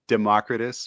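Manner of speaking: "Democritus" as de-MOCK-ri-tus; classical-style pronunciation. Shown as a demonstration. Host arguing from old Greek names, "Democritus" as de-MOCK-ri-tus. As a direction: stress the second syllable, MOCK, in "Democritus". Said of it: "it's probably pronounced".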